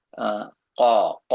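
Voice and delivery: deep throaty k from the back of the throat; Arabic letter qaf. Shown as a demonstration. Teacher demonstrating the deep Arabic letter ক to a student. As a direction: say the k deep in the throat, like a crow's caw. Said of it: "কাকের মতো যেভাবে করে আর কি".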